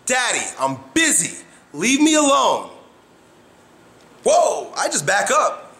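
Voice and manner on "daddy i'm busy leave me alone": imitating daughter. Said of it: "she goes".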